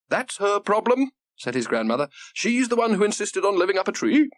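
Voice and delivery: high, lively granny voice; an eager grandmother, delighted by the news. Acted.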